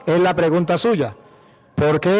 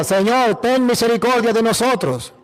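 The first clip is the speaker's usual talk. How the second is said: mildly raised, pleading prayer; acted humble plea to the Lord; pleading for mercy; 3 semitones higher than usual. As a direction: cry out mildly as a sinner begging. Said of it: "Pero clamo misericordia".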